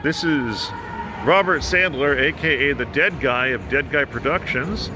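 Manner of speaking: muffled behind a mask; talking through a cloth mask; through a face mask. Real, not acted. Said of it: "I hope you can hear me through this mask that I'm wearing".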